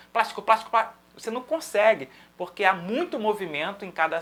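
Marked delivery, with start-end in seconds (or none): 0.1-0.9 "plástico" rattled off fast and cut short; rapido, inciampando. Shown as a demonstration. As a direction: try to repeat "plástico" quickly, breaking off. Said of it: "se você precisar fazer rápido".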